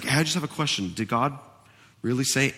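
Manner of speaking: a touch of sly, casual innocence; subtle tempter. Retold or imitated. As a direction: slip the question in softly. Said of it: "It's very subtle".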